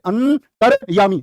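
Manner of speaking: अंतर्यामी said very slowly, the syllables drawn apart so the रे sits after त; अंतर्यामी pulled apart syllable by syllable; slow spelled-out pronunciation. Shown as a demonstration. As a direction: stretch out अंतर्यामी slowly to show where the रे falls. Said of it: "इस रे को बाद में लगाओ".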